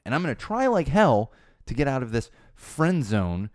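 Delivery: mock the guy whining he's stuck; mock creepy guy. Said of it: "There's some finger quotes going on there".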